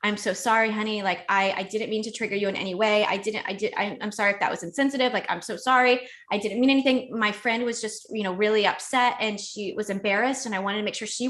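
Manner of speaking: apologies tumbling out, restarting; retold profuse apology. Girlfriend apologizing to an angry boyfriend, retold profuse apology. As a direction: imitate over-apologizing to placate a partner. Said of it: "I'm apologizing profusely".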